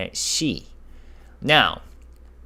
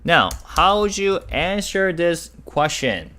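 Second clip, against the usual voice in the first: higher, louder question to the class; excited question; 10 semitones higher, 7 dB louder than usual. Real, not acted. Teacher quizzing students, higher and louder. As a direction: energetically put it to the class.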